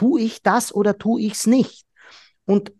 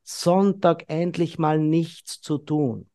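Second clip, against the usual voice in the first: totally chilled; 2 semitones lower, 4 dB quieter, slower than usual. Retold or imitated. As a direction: stretch it out, lazy and content. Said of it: "völlig gechillt ist und sagt". (völlig entspannt, langsam)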